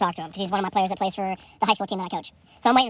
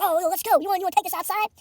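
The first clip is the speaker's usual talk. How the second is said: challenging threat; 13 semitones higher, much faster than usual. Retold or imitated.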